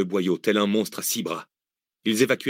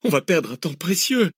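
high whiny complaint; whining; 8 semitones higher than usual. Acted. Cécile objecting to the delay, whining. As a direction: moan it wearily. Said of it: "gémit Cécile".

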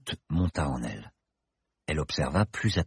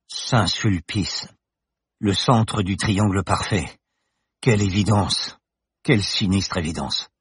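brooding professor; 4 semitones higher, 5 dB louder than usual. Acted. Bergton broods over the revelation.

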